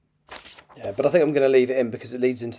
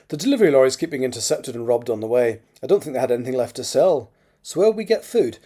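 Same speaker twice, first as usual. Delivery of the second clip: put-on raised, lively character accent; Mackenzie's accent; 3 semitones higher, 7 dB louder than usual. A narrator's reading. Mackenzie tells Crothers about robbed lorries, in regional accent. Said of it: "I don't know why I'm not doing the accent".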